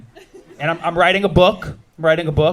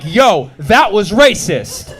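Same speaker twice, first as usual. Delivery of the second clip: slow mock confrontation; 2 semitones higher, 4 dB louder, much slower than usual. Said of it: "I was like".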